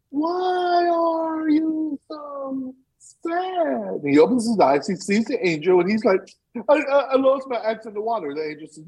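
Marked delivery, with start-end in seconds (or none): 0.1-4.0 much higher, very slow angel voice. Acted. Angel asks again. 6.7-8.3 stammering cry. Acted. Crying man answers angel.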